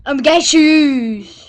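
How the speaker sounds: slow loud fake sobbing wail; hammed-up bawling, dragged out; fake crying. Mock injured goofing for camera.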